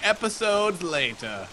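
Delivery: SpongeBob narrator voice. Pretend. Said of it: "that voice from SpongeBob".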